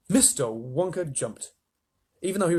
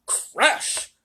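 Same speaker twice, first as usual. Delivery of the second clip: breathy sound word; whispered crash; 11 semitones higher, 4 dB louder than usual. A narrator's reading. Narrator voicing the collision, breathy. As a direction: hiss the crash out.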